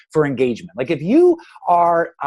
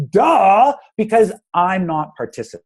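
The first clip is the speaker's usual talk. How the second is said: mock duh; 7 semitones higher, 6 dB louder than usual. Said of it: "you're like".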